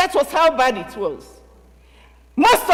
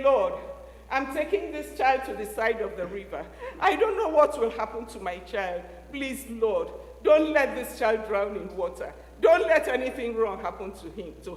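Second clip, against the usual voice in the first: tearful prayer; 3 semitones lower, 4 dB quieter than usual. Acted. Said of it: "I'm sure she prayed".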